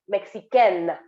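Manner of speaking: Mexicaine with the final N sounded, mex-ee-ken; feminine Mexicaine. Shown as a demonstration. Teacher contrasts feminine Mexicaine, N sounded. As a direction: Mexicaine ending firmly on N. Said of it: "Do you see the difference?".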